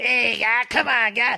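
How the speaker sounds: very high, drawn-out Boston rocker voice. Imitating the movie's voice he feared hearing again: Adam Sandler Boston character voice. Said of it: "he's just gonna do this".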